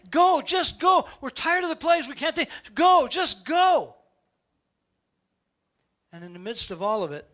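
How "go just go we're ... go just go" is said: high loud pleading, dragged out at the end; begging them to go. Retold or imitated. Egyptians tired of plagues, loud desperate pleading. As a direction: plead desperately, draw out the last go. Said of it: "everybody in Israel's like".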